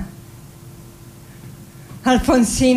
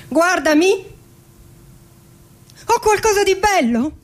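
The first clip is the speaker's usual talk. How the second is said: pleading; 8 semitones higher than usual. Acted. Pleading for a compliment.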